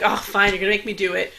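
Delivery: grudging grumble. Retold or imitated. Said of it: "he does this, like, bad impression".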